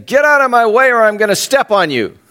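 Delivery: tiny ant threat. Acted. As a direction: play a puny creature making a big threat.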